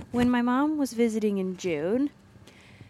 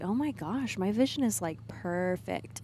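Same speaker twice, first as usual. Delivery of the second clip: put-on Southern accent; 3 dB quieter than usual. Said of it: "She has a very thick Southern accent".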